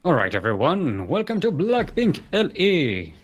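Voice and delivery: slow, drawn-out ring announcer. Acted. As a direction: introduce the players like a boxing MC. Player introductions.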